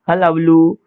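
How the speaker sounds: हल्ला बलू as one word ending on a held oo; pronunciation demo. Shown as a demonstration. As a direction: model हल्ला बलू, lengthening the last vowel. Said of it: "ऐसे".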